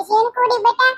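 imitating mom giving advice; mother's voice. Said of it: "મારી mummy મને એમ કીધું તું કે". (મમ્મીની જેમ હળવો પ્રેમાળ અવાજ)

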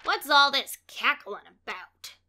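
a touch of a gruff demand; mildly insistent character voice; demanding question. A narrator's reading. Bird asks what the fuss is, lightly demanding. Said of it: "he demanded".

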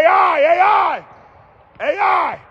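high, loud chant of his nickname; shouting a nickname from the bleachers; courtside shout. Real, not acted. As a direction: hype him up from the stands. Cheering a player courtside.

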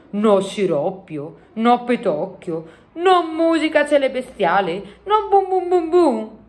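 slow lament climbing high; dismayed giant. A narrator's reading. Giant mourning the missing sciroppio, slow and dismayed. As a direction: list each loss slowly, rising in pitch.

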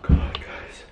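shaky, breathless hushed voice; whisper, still shaken; nervous night vlog whisper. Real, not acted. Shaken, whispering after encounter.

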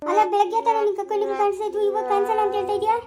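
mother-in-law shouting at her son-in-law; angry shout. Acted. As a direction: yell at the lying son-in-law.

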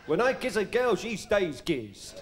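Cary Grant. Retold or imitated. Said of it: "the late, great Cary Grant".

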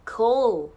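"cool" with the vowel leaning toward "koh"; Australian-style "cool", rounded gliding vowel; "oo" near "koh". Shown as a demonstration. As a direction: say "cool" close to "koh-ool". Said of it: "こうに近いうの音かな".

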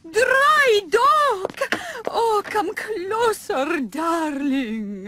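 coquettish prima donna voice; flirty diva. Acted. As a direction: beckon him in sweetly.

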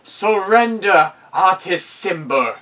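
loud, slow booming command; dopey cartoon bellow. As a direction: boom it across the whole town. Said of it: "You hear a booming voice".

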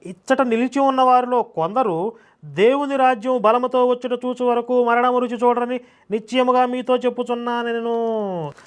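sustained monotone scripture chant; intoned Bible reading. Acted. Preacher reading the words of Jesus, solemnly intoned.

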